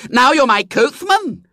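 put-on high, bossy little girl; a spoilt small girl giving orders. A narrator's reading. Violet Elizabeth voiced in story.

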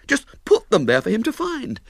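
high, light voiced figure; high put-on story voice; character voice. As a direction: lift the voice for another character.

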